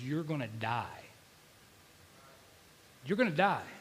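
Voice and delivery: subdued, matter-of-fact death sentence; low-key voice of the enemy; intrusive dark thought. Retold or imitated. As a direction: say it softly, like a thought in the head. Enemy's thoughts in his head.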